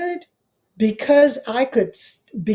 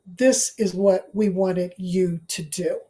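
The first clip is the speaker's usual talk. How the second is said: ancestors speaking; 3 semitones lower, slower than usual. Retold or imitated. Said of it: "sitting right there saying".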